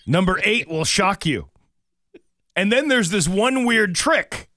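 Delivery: high, loud, slow clickbait hype; clickbait video narrator. Pretend. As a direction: oversell each line like a clickbait ad. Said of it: "talking like I'm the editor of a clickbait news site".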